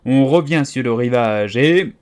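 lively, emphatic instruction; called dance step. Acted. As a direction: round off the frenzy.

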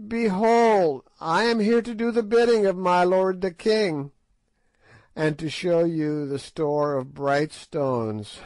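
put-on old witch Gagool gloating at the white men; piping witch. A narrator's reading. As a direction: pipe it out like an ancient sly witch. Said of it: "she piped".

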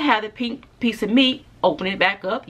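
speaking around fingertips; fingers at lips. Real, not acted. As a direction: hand touching mouth. Seen 0: fingertips held at lips while speaking, intermittently from 2.2s.

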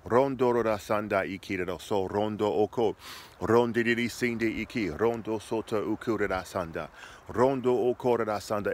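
fluent tongues prayer; praying in tongues. Shown as a demonstration. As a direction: let the syllables flow. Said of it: "And you just begin to thank him".

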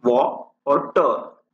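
"वॉ", a pause, then "टर"; syllable by syllable. Shown as a demonstration. Teacher splitting water into two syllables, syllable by syllable. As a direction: break the word into "वॉ" and "टर". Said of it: "यहाँ पे दो syllables है".

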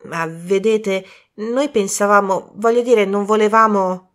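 halting, slowed start then rising; flustered young man. Acted. Colin explaining to Poirot, flustered. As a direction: stumble over excuses.

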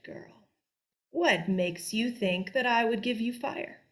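put-on slow, scornful old witch; slow contemptuous witch voice; Baba Yaga. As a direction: sneer down at the stupid girl.

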